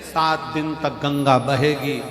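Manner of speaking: slow, stretched, repetitive proclamation; preaching holy man. Acted. Maharaj inviting devotees to bathe, slow mock preaching. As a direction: intone the promise like a pompous guru. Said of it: "महाराज जी प्रवचन में बार बार".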